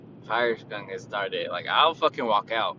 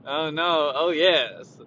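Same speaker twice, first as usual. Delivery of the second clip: Kool-Aid man; 5 semitones higher, 7 dB louder, slower than usual. Retold or imitated. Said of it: "like the Kool-Aid man".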